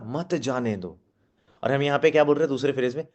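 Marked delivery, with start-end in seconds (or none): 0.0-1.0 softer, falling मत जाने दो; follow-on after pause. Shown as a demonstration. Trainer finishing the split line, मत जाने दो softer. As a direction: let मत जाने दो drop as its own phrase. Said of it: "फिर बोला".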